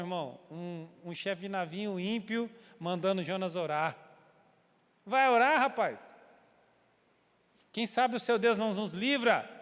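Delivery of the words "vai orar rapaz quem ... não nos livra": louder, higher mocking demand; incredulous shout. Preacher replaying the pagan captain ordering Jonah to pray, loud. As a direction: throw the order back in disbelief.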